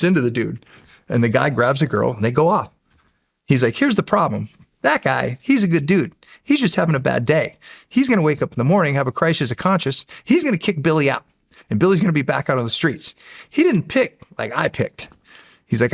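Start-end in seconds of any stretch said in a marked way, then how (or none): 3.8-15.1 little demon voice. Retold or imitated. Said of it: "this cute little guy running around".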